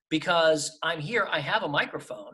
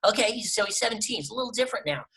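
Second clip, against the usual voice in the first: put-on higher-pitched teenage voice; seventeen-year-old character; 6 semitones higher, faster than usual. Shown as a demonstration. Voice actor adjusting for a director to seventeen, higher teen voice. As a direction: lift the voice into a quick teen. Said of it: "let's make him seventeen".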